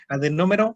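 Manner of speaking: Adenómero with the accent on NÓ; stress on first O. Shown as a demonstration. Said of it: "y con acento".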